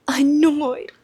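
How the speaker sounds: incredulous echo; mock disbelief. Shown as a demonstration. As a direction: echo "Annoyed." like you can't believe it. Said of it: "And he is annoyed".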